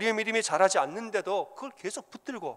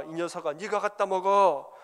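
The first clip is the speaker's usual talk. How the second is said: angry father scolding; 4 dB louder than usual. Retold or imitated. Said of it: "화를 냅니다".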